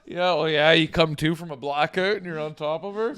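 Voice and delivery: high mock terrified panting; panicked gasps. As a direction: gasp like waking from a nightmare.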